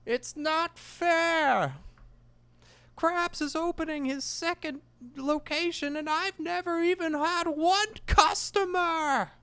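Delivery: very high, slow, whiny squeaky voice; high whiny cartoon squeak, drawn out; Plankton impression. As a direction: whine it like a tiny frustrated villain. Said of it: "is Plankton, uh, doing his".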